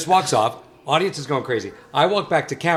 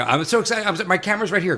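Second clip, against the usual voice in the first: mock nervous excitement; 7 semitones higher than usual. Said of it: "And I'm freaking out".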